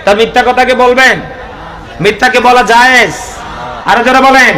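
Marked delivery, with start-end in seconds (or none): 3.8-4.5 urging shout. Real, not acted. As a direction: rouse the crowd, raise the voice. Urging crowd to answer louder.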